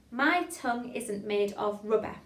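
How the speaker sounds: careful, measured diction; tongue-twister demo. Shown as a demonstration. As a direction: model the line clearly for learners. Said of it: "Next line".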